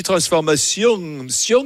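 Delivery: held-back southern French ending on "transformation", then "sion"; "transformation" with the southern French twang half hidden; shamefaced southern French accent. Shown as a demonstration. Host mimicking caller's shamefaced accent, slight southern French ending on "transformation". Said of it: "t'as l'accent honteux".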